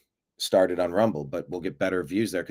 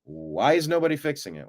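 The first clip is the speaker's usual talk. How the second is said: half-raised yell of disbelief; mock exasperated yelling; 3 dB louder than usual. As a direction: call out as if nobody is listening, swooping on key words. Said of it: "then you start screaming".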